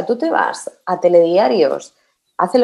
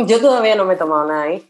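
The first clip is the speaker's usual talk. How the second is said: laughing while talking; much faster than usual. Real, not acted. Joking about metaverse bars.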